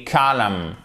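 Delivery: "calm" said "KAH-lum", the word column; silent N. Shown as a demonstration. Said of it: "on ne prononce pas le N".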